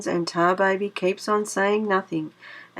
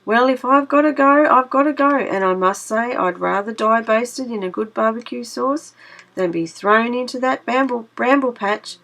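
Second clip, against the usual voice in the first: louder, higher rabbit, faking acceptance; pretend resignation; 4 semitones higher, 4 dB louder than usual. Brer Rabbit faking brave resignation to Brer Fox, higher and louder. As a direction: play the doomed rabbit, bravely.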